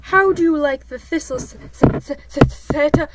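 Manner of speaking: building to a sneeze. Acted. Pooh asking about thistles, fighting a coming sneeze.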